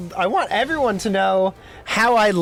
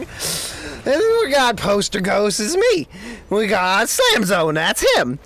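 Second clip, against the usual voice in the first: hammed-up host voice; 4 semitones higher than usual. Hammed-up intro continues.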